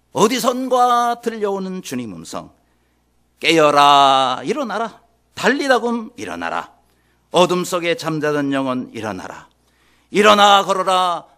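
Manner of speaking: declaimed verse, measured then building loud; hymn lyrics recited. Acted. Preacher reciting a hymn to congregation, building declamation. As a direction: recite like poetry, swelling into summons.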